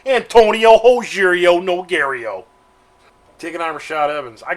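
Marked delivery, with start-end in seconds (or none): 0.1-2.4 booming, drawn-out fight announcer call; Goldberg impression. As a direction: belt out the name slowly, loud and high. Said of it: "like, uh, Goldberg likes to say".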